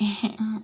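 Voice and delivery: soft little mock laugh; imitated laugh. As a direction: imitate their tipsy snicker. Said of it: "like that".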